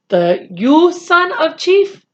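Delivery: loud, fierce demand; a proud little warrior shouting his challenge. Acted. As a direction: bark the question down at him. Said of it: "he shouted at Omri fiercely".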